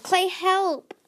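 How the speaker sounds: high urgent shout; calling for help. A narrator's reading. Tsunami calls Clay for help, high and loud. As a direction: call for help across the cliff.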